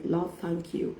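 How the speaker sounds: softly, under the breath, a thankful prayer; soft quiet prayer. Retold or imitated. Wife quietly thanking God after hanging up, soft prayer. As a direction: hush it like a private thanks to God. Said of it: "I smiled".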